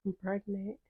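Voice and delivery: meek confession. Retold or imitated. Retold confession to her brothers.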